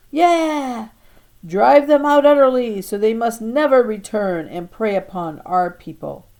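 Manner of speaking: high, loud war cry; battle shout. Acted. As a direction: yell like a child knight charging. Children shouting in mock battle.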